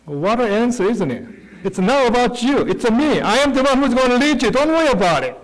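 voicing God. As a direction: speak God's reassurance with conviction. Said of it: "But he said, God said to Moses".

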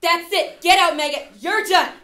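furious shouted commands; barking gym coach. Acted. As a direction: yell them out of the room. Host ejects auditioner, yelling.

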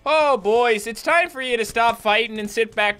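put-on stereotypical Canadian peacemaker accent. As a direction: break up the fight in hammed-up Canadian. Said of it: "Even with the Canadian accent".

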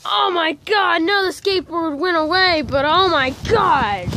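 high breathless gasps after the snow; gasping from cold. Real, not acted. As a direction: gasp it out, shocked by the cold. Face in snow, shocked.

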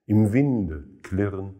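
measured poetry reading with pauses between phrases; solemn recital, line endings falling away; poem recitation. Acted. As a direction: recite the verse deliberately, letting each image stand.

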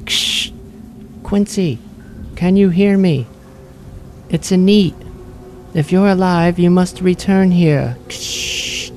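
high, muffled voice with static crackle. Acted. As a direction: speak like a crackly magic radio. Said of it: "small, muffled voice coming from Quincy's pocket".

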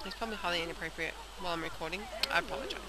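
talking while chewing a lolly; chewing candy mid-sentence; mouth full. Real, not acted. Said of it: "I'm chewing on a lolly".

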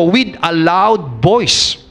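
each word drawn out very slowly, WITH lifted; slow emphasis. Shown as a demonstration. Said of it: "pero sabi rito".

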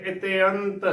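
ਇਤਿਅੰਤ as "ite-ant"; correct pronunciation demo. Shown as a demonstration. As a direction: say ਇਤਿਅੰਤ with "te-ant" as separate vowels. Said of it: "ਉਚਾਰਨ ਕਰਨਾ ਹੈ".

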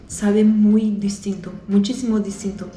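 chewing while talking; speaking around a bite; mouth full. Real, not acted. Seen 1: Bites croissant just before; lips pressed, chewing between words while holding it.

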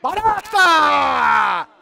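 loud, very slow stretched shout; drawn-out yell. Real, not acted. Streamer cheering his goalkeeper with a long yell. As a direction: draw the name out at full voice.

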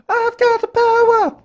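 very high, slow hammed-up boast; mock Rainbow Warrior promo voice; wrestler boast. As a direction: announce your power like a cartoon wrestler. Wrestler power catchphrase.

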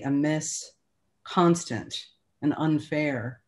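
measured poetry recital, pausing between phrases; poem reading. Acted. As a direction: read the poem line by line with deliberate pauses. Reads own poem aloud.

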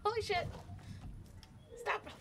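very high panicked squeak; high squeaky voice. Retold or imitated. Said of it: "It's like".

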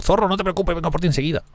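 high-pitched squeaky call to a companion; urgent high reassurance. Real, not acted. Player promising Zorro a quick rescue, urgent high-pitched reassurance. Calls to animal needing rescue.

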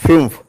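"fumph" with a fronted u; German umlaut pronunciation. Shown as a demonstration. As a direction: demonstrate "fumph" as German fünf. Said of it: "It is pronounced as". ("fumph" German ഉച്ചാരണത്തിൽ)

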